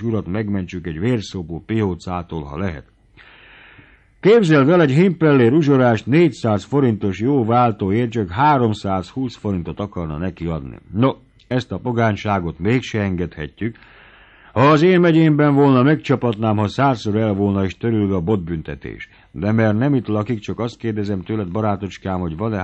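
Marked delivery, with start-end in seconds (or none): 4.2-10.8 loud, much higher outburst; outraged exclaim. Acted. The baron tells his servant of the usurer, loud and high. 14.5-18.2 indignant threat. Acted. Baron threatens usurer.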